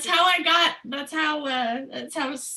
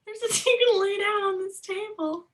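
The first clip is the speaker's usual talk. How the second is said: in character; 10 semitones higher than usual. Acted. Player voices her bard character.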